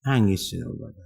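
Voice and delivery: usual speaking voice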